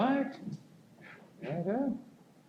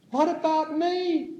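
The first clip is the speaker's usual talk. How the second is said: higher, slow little voice asking to be noticed; small plaintive inner voice; 13 semitones higher than usual. Pretend. The neglected inner me asking to be heard, higher and slow. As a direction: plead like a neglected child inside.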